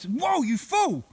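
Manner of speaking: startled shout. Real, not acted. Startled by an attacking bird.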